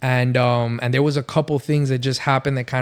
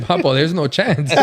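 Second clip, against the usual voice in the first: laughing; 3 semitones higher, 3 dB louder than usual. Retold or imitated. Laughing at the idea of no lust.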